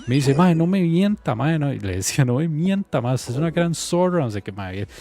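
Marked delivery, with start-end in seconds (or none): 0.3-4.2 imitating angry yell. Cheated man yelling at girlfriend.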